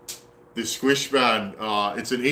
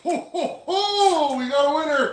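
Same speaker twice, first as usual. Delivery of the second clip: triumphant whoop; 14 semitones higher than usual. Real, not acted. Saw finally starts running.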